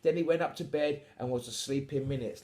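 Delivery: animated bedtime storyteller; story narration. A narrator's reading. Reads the story aloud.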